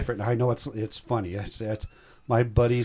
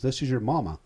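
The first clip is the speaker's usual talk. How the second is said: mildly imitated Tennessee accent; 2 semitones higher than usual. Son imitating his birth mother on the phone, light Tennessee accent. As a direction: retell it with a touch of Tennessee twang. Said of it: "she's from Tennessee".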